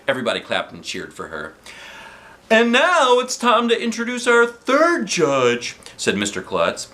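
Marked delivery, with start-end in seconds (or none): 2.5-5.8 high, bright showman's welcome; announcer voice. Acted. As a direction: announce it to the crowd. Principal announcing on stage.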